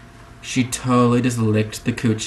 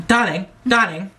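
posh English; 7 semitones higher than usual. Pretend. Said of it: "You'd just be like".

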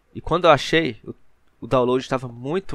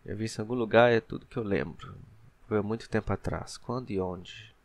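understated, softer read of a character's thoughts; reading game text; 7 dB quieter than usual. A narrator's reading. Player voices the heroine's lost memory, understated soft reading. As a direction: read the inner monologue quietly, trailing softer.

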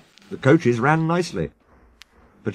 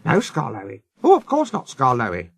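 timid, placating reply; a touch of cowed nervousness; meek quaver. Acted. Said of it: "quavered the coaches meekly".

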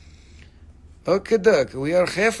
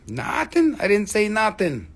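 mock disbelief; 2 semitones higher than usual.

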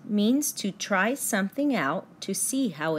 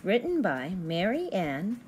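lilting sing-song storybook read; gentle picture-book reading voice; reading to children. Acted. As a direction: read it like bedtime rhymes for little kids. Reads picture book to kids.

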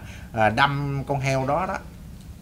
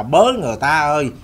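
fast, louder cry of a dying pig with a human voice; mock cry for help; 4 dB louder, faster than usual. A pig being stabbed cries like a person for help, mock panicked. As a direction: call out for rescue in a hurried, mock panic. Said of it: "nghe cái tiếng dội bên kia dội qua là".

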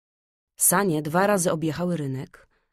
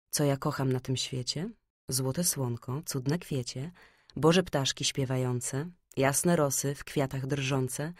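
recited song verse; 2 semitones lower, 4 dB quieter than usual. A narrator's reading. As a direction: recite a children's song gently, without singing. (cicha, spokojna recytacja piosenki)

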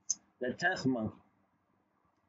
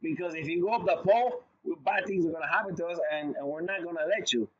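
mock-scold the new monkey, a bit hurried; 2 semitones higher than usual. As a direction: other monkeys stopping the new one, lightly hammed-up alarm. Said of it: "They're like".

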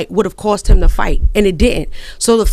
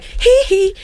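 mock noise; 9 semitones higher than usual. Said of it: "The dude's arm went out like".

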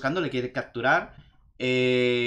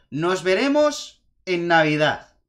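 slow, louder villain line "Nos veremos en Navidad"; said aloud; 2 semitones higher, 5 dB louder, slower than usual. Retold or imitated. Eggman's closing threat retold, slow and loud. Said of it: "él dice en alto".

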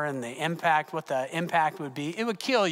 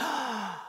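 mild retold gasp; 5 semitones higher, 7 dB quieter than usual. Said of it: "and I went".

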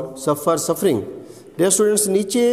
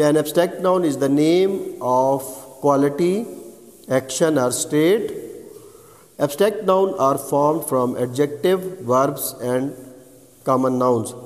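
each phrase spaced out, very slow; slow dictation; much slower than usual. Shown as a demonstration. Teacher dictates the definition of cataphoric and anaphoric to students, very slowly. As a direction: dictate so students can write it down.

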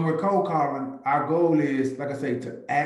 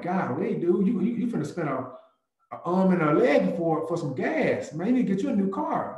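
higher, mock shocked ribbing; playful ribbing; 5 semitones higher than usual. Agent teasing a driver at the gas pump, mock shocked. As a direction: rib them about the gas price.

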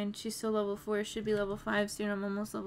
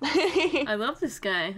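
gushing; 4 semitones higher, 8 dB louder, slower than usual. Real, not acted. Gushing over character.

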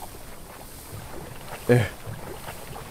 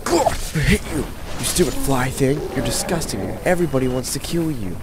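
exasperated rant; 3 semitones higher than usual. Real, not acted. Player cursing a stupid fly thing, exasperated. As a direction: rail at a pest in exasperation. Ranting at enemy in game.

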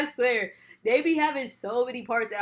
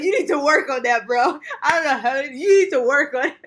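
put-on scolding girlfriend; 2 semitones higher, 9 dB louder than usual. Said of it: "we be like".

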